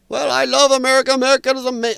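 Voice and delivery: put-on high, quick, failed Austrian accent; botched Arnold accent. Schwarzenegger answering the ladies on The View, botched Austrian accent. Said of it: "I'm not doing the right accent".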